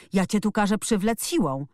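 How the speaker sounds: mildly heated call. A narrator's reading. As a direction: call out a threat, lightly acted. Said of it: "wołał Colin".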